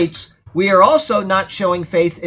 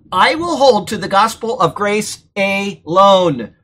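firm, deliberate vow; emphatic declaration; 3 dB louder than usual. Acted. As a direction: declare it with conviction, weighting key words. Declares the vow every reader should make.

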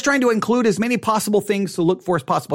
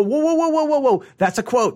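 excited whoa; 6 semitones higher than usual. Retold or imitated.

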